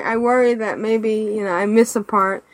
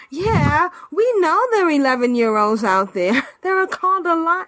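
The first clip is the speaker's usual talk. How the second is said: mocking retort, breaking into a laugh; amused, laughing mock reply; laughing scorn; 5 semitones higher than usual. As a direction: scoff as if it's obvious, amused. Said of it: "and I'm laughing, going".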